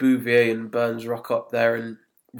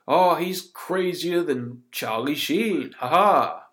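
raised, drawn-out hacky sitcom line; lazy sitcom; 4 semitones higher, slower than usual. Acted. Podcaster mocking lazy sitcom references, hammy sitcom delivery. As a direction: deliver a cheesy gag with a spoken fake laugh. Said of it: "lazy sitcom going".

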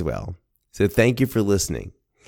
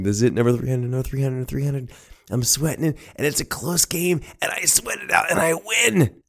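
higher pitch climbing to the win; tense excitement, pitch rising line by line; building tension; 7 semitones higher than usual. Retold or imitated. Grandson sweating out game three hundred, building excitement.

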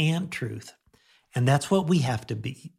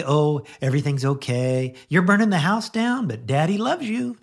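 mock permissive dad; 3 semitones higher, 4 dB louder than usual. Father shrugging off a burning house, mock doting. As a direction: ham up a pushover dad. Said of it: "So I don't just say".

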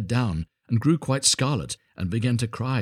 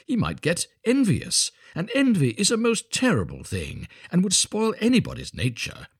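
lightly voiced self-important miller, measured and emphatic; pompous miller, lecturing. Miller scolding his young son, lightly pompous lecture. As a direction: lecture like a self-satisfied miller, with deliberate weight.

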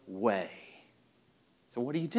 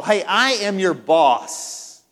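asserting control; 3 semitones higher, 6 dB louder, much slower than usual. Acted. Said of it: "he wants to be in control".

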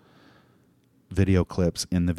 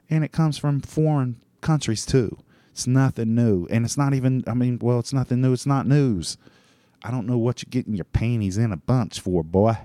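lightly put-on folksy scold, higher; 5 semitones higher than usual. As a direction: slip into a playful put-on voice, pitched up. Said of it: "I don't know why I've been talking like that".

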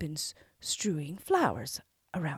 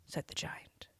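usual speaking voice

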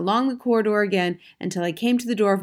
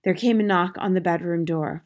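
usual speaking voice

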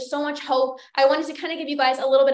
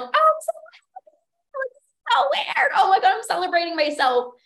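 excited squeal; 7 semitones higher than usual. Retold or imitated. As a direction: squeal it to your partner like you just won. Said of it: "I was, like, screaming to Andrew".

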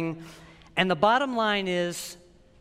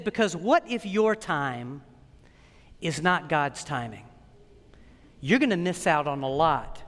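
gentle rebuke; 4 semitones lower than usual. Retold or imitated. Visiting pastor corrects his American brother, gently rebuking. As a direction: rebuke gently, with weighty pauses. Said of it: "his gentle rebuke".

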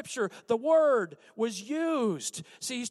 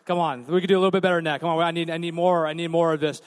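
hype shout; 5 semitones lower, 8 dB louder, faster than usual. Real, not acted. Hyping up the crowd.

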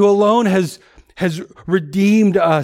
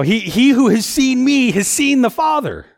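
mildly frustrated; 8 semitones higher than usual. Acted. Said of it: "maybe he's getting a little bit frustrated with him".

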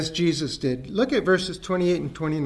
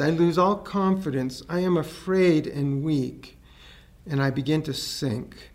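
prayer. Acted. Reads his written prayer.

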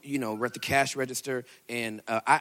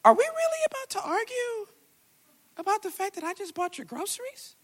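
exasperated retort. Retold or imitated. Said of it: "I looked back at her and I said".

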